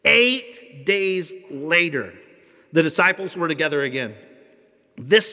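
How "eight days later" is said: "Eight days later" drawn out word by word; slow, deliberate. Shown as a demonstration. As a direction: read "Eight days later" slowly and carefully. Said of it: "read this correctly".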